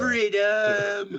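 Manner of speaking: loud Braveheart-style war yell; battle cry. Pretend. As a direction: roar it like a warrior charging.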